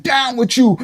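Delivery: high mock protest cry; pretend yell. Protester yelling in your face, high mock yell. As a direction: chant it as a held-back shout. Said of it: "and I'm yelling in your face".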